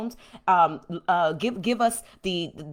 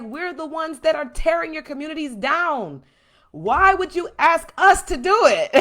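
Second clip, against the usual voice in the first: higher, louder, laughing as the cops; mock the police through laughter; 6 semitones higher, 7 dB louder than usual. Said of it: "They're like".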